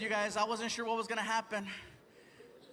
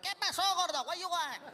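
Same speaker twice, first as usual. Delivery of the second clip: rude taco guy; 8 semitones higher than usual. Retold or imitated. Taco truck guy snapping at a customer, gruff mock accent. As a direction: bark the order back like a rude cook.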